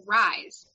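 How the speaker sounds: the name said as "rise", with a Z ending; "rise" pronunciation. Shown as a demonstration. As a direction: say it "rise", rhyming with eyes. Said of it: "I read that as".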